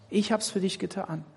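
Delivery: „Ich hab's für dich getan“ leiser und ruhig gesprochen; sanft, leise als Jesus. Pretend. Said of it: "also Jesus". (tröstend und leiser)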